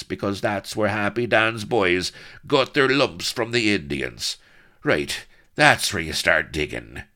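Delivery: high, loud, strained directions; clear, somewhat strained. A narrator's reading. Bound Blood gives up the treasure, strained. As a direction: ring out clearly under strain. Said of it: "voice that rang clear, if somewhat strained".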